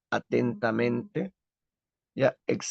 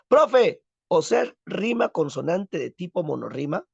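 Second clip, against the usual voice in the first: high, loud call, easing into a question; mock student voice, pitched up; student checking; 5 semitones higher, 3 dB louder than usual. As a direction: pipe up like a pupil working it out. Acts out a student addressing the teacher.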